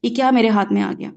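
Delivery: a hint of a grossed-out exclaim; mock disgust. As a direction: flick it away in mild disgust. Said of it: "حقارت سے".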